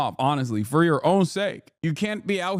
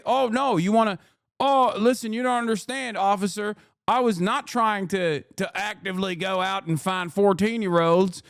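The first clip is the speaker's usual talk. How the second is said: pitched-up whiny plea to the officer; mock pleading Moore; 4 semitones higher than usual. Roy Moore pleading with the officer to stay, whiny mock plea. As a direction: beg the cop like a creep caught out.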